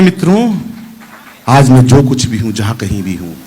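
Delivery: Modi impression. Comic imitating the prime minister addressing the crowd, low and solemn. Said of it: "और एक ही बात कहते हैं".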